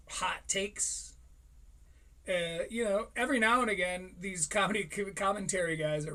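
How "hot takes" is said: whisper. Real, not acted. Self-mocking aside.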